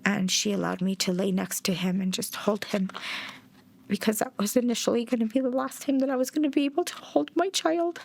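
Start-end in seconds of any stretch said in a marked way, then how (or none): 3.9-8.0 grieving. Real, not acted. Mother recalling holding her child for the last time, grieving. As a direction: voice climbing high toward tears on the last words.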